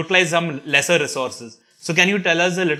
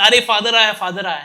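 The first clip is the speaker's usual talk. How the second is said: higher-pitched, lightly acted exclamation; excited boy's cry; 5 semitones higher, faster than usual. Boy announcing that Father has come, imitated excited cry. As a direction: imitate a boy spotting someone he knows. Retold boy spotting the priest.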